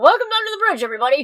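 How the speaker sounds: a hint of announcer on the intro; lightly hammed-up show host welcome; half announcer voice. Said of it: "I'm doing the announcer voice halfway".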